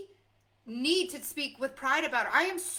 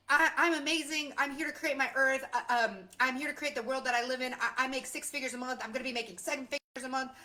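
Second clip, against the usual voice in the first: bragging demo; faster than usual. Shown as a demonstration. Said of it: "Do you feel yucky when I do that?".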